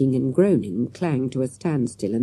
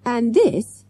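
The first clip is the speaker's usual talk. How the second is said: excited, higher-pitched reveal; 8 semitones higher, 3 dB louder than usual. A narrator's reading. Boy showing friends the button, excited. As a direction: present the clue with excitement. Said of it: "he added excitedly".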